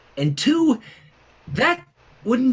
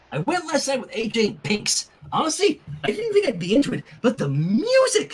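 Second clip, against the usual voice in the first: higher, fast, giggly rush about the concert; excited gushing; 4 semitones higher than usual. Acted. Rainbow gushing to Sunset about the concert, high and excited. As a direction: gush like a fangirl who can't contain it. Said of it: "as she squealed".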